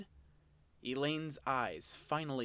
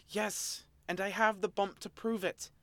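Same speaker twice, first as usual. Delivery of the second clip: spat; 7 semitones higher than usual. Acted. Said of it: "the Oshawott spat".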